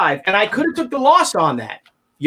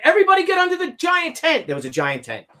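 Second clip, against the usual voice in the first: high raised call to everyone; calling out to crowd; 6 semitones higher than usual. Retold or imitated. Wife calling crowd under the tent, raised high call.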